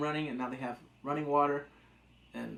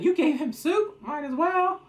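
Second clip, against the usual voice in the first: loud; 12 semitones higher, 8 dB louder, slower than usual. Retold or imitated. Acted quote of a character.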